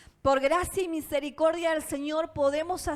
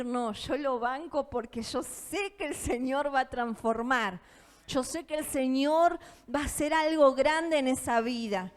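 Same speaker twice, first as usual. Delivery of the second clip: softer, trusting conviction; hushed hopeful faith; quiet faith; 2 semitones lower than usual. Retold or imitated. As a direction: say it gently, sure the Lord will act. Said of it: "tengo la opción de decir".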